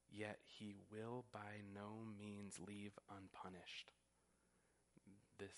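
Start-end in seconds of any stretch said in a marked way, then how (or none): 0.1-3.9 slow, softer, weighty delivery of he will by no means leave unpunished; solemn and slow. Shown as a demonstration. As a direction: let each word of by no means leave unpunished land slowly and quietly. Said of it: "That is the same Hebrew construction".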